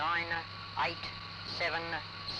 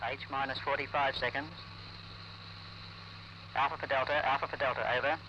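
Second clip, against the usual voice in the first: crackly military radio; 7 dB quieter, faster than usual. Real, not acted. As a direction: speak through a crackly field radio. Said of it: "Loudspeakers sounding harshly".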